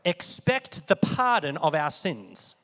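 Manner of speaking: pardon stretched slowly; slow, deliberate reading; slow emphasis. Shown as a demonstration. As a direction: spell it out slowly for the room. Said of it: "Everyone say".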